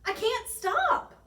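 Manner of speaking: high, loud, drawn-out wail; panicked cry. A narrator's reading. Bigfootosaurus skating out of control, high wail. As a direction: wail it while careering away. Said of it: "he cried".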